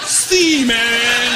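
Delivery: loud, high, drawn-out fake Italian yes; clueless reply. Tourist bluffing to Italians speaking to him, loud drawn-out reply. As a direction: stretch it out loudly, bluffing along.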